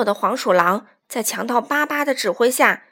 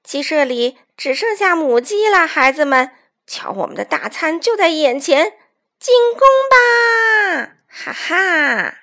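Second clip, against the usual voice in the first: loud, raised rallying call; villain's battle cry; 5 semitones higher, 6 dB louder than usual. A narrator's reading. Bandit chief ordering the attack, gloating shout. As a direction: build to a high, long-held attack cry.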